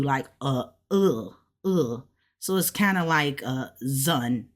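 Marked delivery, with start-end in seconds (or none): 0.9-2.0 isolated "uh" vowel, drawn out for the learner; E pronounced U. Shown as a demonstration. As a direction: sound out "uh" on its own. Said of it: "this E is pronounced U".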